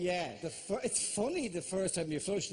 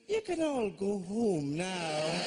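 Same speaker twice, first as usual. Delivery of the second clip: slow, lightly voiced announcement; deadpan announcer; slower than usual. Voice after the fireworks sends the crowd home, deadpan. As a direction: calmly dismiss the crowd. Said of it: "And then a voice goes".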